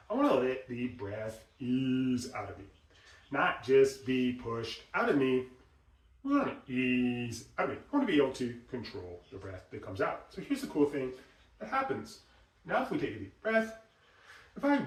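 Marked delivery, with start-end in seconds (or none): 0.1-10.3 calm inner voice. Shown as a demonstration. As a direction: talk yourself into letting air ease out. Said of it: "you wanna think to yourself".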